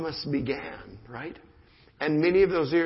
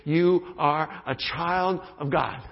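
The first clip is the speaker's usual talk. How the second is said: slow, deliberate affirmation; sincere affirmation; slower than usual. Shown as a demonstration. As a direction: lay each word down slowly. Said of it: "we just affirmed those truths".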